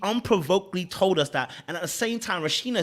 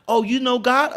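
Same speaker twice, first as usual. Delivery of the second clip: loud, high-pitched eager imitation; mock overexcited question; mock excitement; 9 semitones higher, 10 dB louder than usual. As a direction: burst out in hammed-up delight. Mimics her sudden eager interest.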